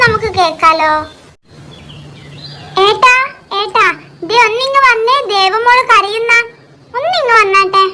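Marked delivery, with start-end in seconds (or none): 2.8-7.8 calling out. Acted. Wife calling husband to come.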